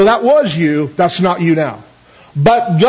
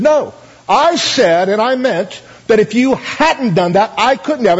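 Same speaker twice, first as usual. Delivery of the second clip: sharp; 3 semitones higher, slower than usual. Retold or imitated. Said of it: "the Lord finally got quite sharp with him".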